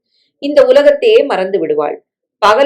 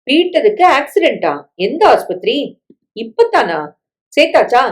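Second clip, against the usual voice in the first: higher-pitched, alarmed questions; shocked questioning; 5 semitones higher than usual. Acted. Man on the phone hearing of Peter's accident, shocked. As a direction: ask in startled disbelief, pitch jumping up.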